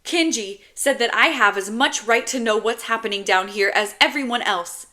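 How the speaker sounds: put-on high, loud, upset little boy; kid's indignant outburst; frustrated child. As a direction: spit the words out in hurt frustration. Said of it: "so frustrated he has to spit the words out".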